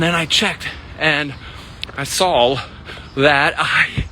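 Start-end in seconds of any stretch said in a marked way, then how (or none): 1.9-2.6 "saw" said as "sawl"; deliberate mispronunciation. Real, not acted. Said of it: "continue to mispronounce the word S A W".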